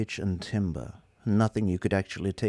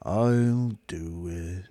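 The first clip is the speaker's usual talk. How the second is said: slow, lifeless robot voice; bored superior machine; depressed robot drones on; gloomy robot; 3 semitones lower, much slower than usual. Acted. Marvin's voice.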